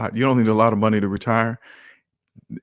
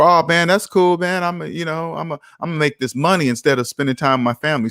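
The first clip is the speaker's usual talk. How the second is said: mock excited debtor; 3 semitones higher than usual. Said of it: "they just go for".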